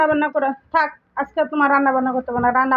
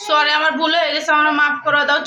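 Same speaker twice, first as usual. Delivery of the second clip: meek, put-on sorry voice; staged apology; 3 semitones lower than usual. Wife fakes an apology to fool her mother-in-law. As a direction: play the contrite wife for show. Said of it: "তুমি যে আম্মুর কাছে বলবা যে".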